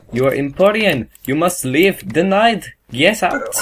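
lightly acted official refusal, rising in pitch; mock stern inspector. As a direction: dismiss them as an officious border guard. Inspector turns away a foreigner.

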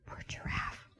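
hushed sympathetic whisper; soft pitying whisper. A narrator's reading. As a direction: breathe it softly like a secret. Sympathetic aside to children.

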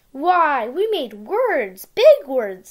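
excited firefly. Acted. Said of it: "said Gus the Firefly".

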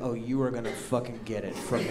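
soft, under-the-breath menace; quiet threat. Retold or imitated. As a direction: promise revenge in a low hush. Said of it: "And I'm like".

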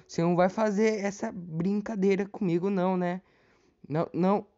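high, loud panicked yelling; panicking gamer. Real, not acted. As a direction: freak out as the killer chases you. Followed by killer in game.

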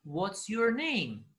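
very slow teaching delivery; listen-and-repeat model. Shown as a demonstration. Teacher repeats the recording for learners, slow model. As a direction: draw each word out for learners. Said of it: "and repeat و قرار شما تکرار کنید".

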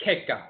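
"keka" with ay first, KAY-kah; other-dialect pronunciation. Shown as a demonstration. Lecturer giving the other dialect, "keka" as KAY-kah. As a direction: swap the ah for ay in "keka". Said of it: "pronounced in the other dialect as".

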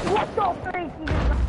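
surprised. Real, not acted. Startled after teammate's blunder.

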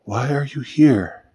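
bewildered, drawn-out asking; stupefied, barely managed. A narrator's reading. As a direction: manage the question slowly through a daze. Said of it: "Finally she managed".

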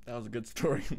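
talking through a mouthful; words round a bite of food; mouth full. Real, not acted. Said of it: "Are you eating ... licorice right now".

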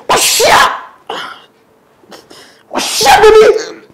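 high mock call to a child. Pastor mock-calling his baby. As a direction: call the baby across the room.

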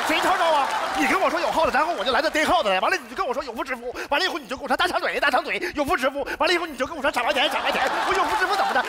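a worked-up, breathless rant; exasperated man venting at both neighbors, frantic. Acted. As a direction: spill it all out, half laughing, going mad. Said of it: "要疯".

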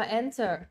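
"enter" with the weight on EN; strong EN, weak falling -ter in "enter"; first-syllable stress. Shown as a demonstration. Teacher confirms the answer for students, first-syllable stress. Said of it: "âm số một ha".

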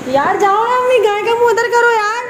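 high, loud call to mother below; shouting down. Real, not acted. To her mother below about the cow, a loud high call. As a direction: yell it down from the roof.

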